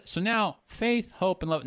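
high, sing-song so now faith; mocking the common lilt; mock wrong reading. Shown as a demonstration. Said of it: "No, no, no. He's not using now like that".

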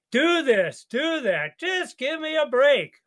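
whiny, rising mock complaint; hammed-up bossy master, voice climbing; mock bossy demand. Pastor mocking how people hear God's law, bossy whine.

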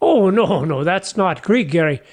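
ordinary talk, nothing marked

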